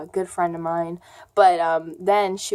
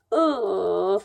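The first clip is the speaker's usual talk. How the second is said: long "ugh" of disgust; disgusted groan. Real, not acted. Girl recalling an unwanted kiss, disgusted groan. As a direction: groan at something grody.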